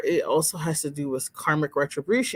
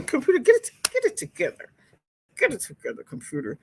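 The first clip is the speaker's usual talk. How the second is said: playful scolding; 9 semitones higher than usual. Real, not acted.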